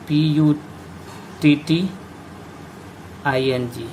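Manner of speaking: slowly spelled letter by letter; slow spelling. Shown as a demonstration. Teacher spells out the word.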